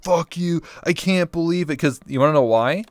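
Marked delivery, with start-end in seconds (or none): 0.0-1.8 higher-pitched mock outrage; lightly acted retold anger; mock angry. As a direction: imitate an indignant hater. Retold angry message from viewer.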